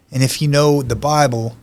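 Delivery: ordinary talk, nothing marked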